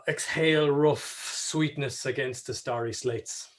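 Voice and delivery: slow, measured mock-poetic recital; lightly mock Heaney. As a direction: lightly send up Heaney's verse, drawn out. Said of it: "that's pure Heaney, like".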